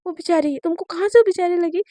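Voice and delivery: mock the word बेचारी with annoyance; irritated. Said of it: "Shivani का दिमाग ख़राब हो जाता है". (चिढ़ी हुई, ताने के साथ)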